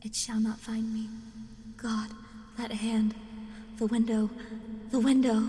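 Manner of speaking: loud cries in short bursts, building; panicked climax. A narrator's reading. Doomed narrator sees the hand at the window, rising panic. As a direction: build to a terrified shout, phrase by phrase.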